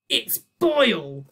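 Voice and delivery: slow, loud, high correction; shouted. Acted. Boyle to Zeus, shouting his name. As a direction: snap the name back. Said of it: "shouted Boyle".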